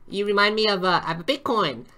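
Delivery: a light hint of a cheesy pickup artist; hammed-up flirt pitch; pickup line voice. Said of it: "you guys know my line".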